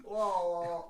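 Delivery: tongue-slip la la. Shown as a demonstration. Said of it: "like I'm having a stroke".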